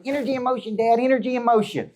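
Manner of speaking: put-on high-pitched little kid echoing Dad; three-year-old daughter. Three-year-old parrots her dad's motto from the car, high child voice. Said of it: "I put my three-year-old in the car".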